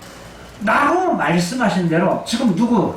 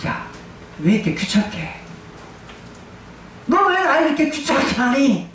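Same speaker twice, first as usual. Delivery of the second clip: annoyed complaint; 3 dB quieter than usual. Retold or imitated. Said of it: "현대말로 바꿀게요".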